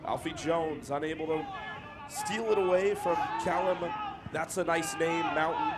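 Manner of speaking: measured match commentary, lifting on players' names; football commentator calling the play; live play-by-play. Real, not acted. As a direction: follow the ball phrase by phrase.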